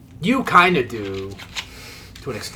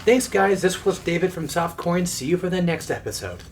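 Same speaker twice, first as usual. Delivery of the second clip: youtuber outro; 5 semitones higher than usual. Pretend. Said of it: "the little title card".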